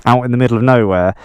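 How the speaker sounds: muffled through a helmet mic; inside a helmet. Real, not acted. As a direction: talk from inside a motorcycle helmet. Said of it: "sorry I haven't taken my helmet off".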